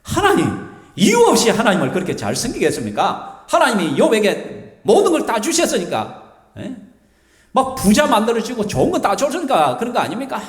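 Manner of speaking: high, whiny protest from an irritated devil; Satan sulking and griping to God; fuming sulky Satan. Retold or imitated. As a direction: pitch it up and complain like a sore loser. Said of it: "마귀가 막 열받아 미치는 거냐".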